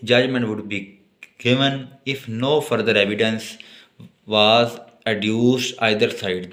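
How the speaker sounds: reads the statute slowly, word by word; slow dictation. Acted. Teacher slowly dictating law text to note-taking students. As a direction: dictate it so students can write.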